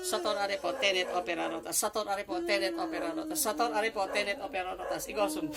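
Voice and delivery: steady, repeated ritual formula; incantation. Real, not acted. Healer reciting Latin words over the patient, incantation. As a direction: recite it in an unbroken rhythmic loop.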